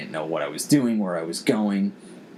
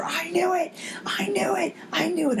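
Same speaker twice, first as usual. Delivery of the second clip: retold scream. Nephew in the theater, mock thrilled high squeal. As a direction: imitate a kid's thrilled breathy cry. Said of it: "my nephew screams in the theater".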